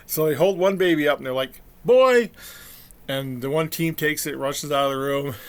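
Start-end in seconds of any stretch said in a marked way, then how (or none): 1.8-2.3 put-on high, loud call of "Boy!"; a doctor's loud, high announcement; announcing shout. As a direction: call it out to the whole room. Doctors announce first twin.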